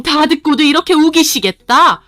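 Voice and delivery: high, loud, angry tirade; furious accusation. Acted. Mother-in-law accusing daughter-in-law of cheating, furious. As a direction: accuse her with fury.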